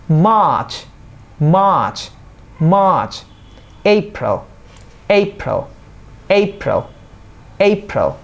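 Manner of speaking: মার্চ as long "maach", এপ্রিল as "AY-prəl"; pronunciation drill. Shown as a demonstration. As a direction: say মার্চ and এপ্রিল singly, each with a firm fall. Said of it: "এখন তাহলে শুরু করি". (শুদ্ধ উচ্চারণে থেমে থেমে)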